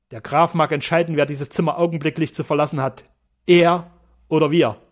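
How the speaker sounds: loud contemptuous retort. Acted. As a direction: dismiss him with scorn.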